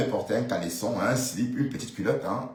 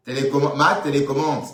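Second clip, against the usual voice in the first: interpellation taquine; 5 semitones higher, 6 dB louder than usual. Pretend. Interpelle Flore, sa « télécommande ».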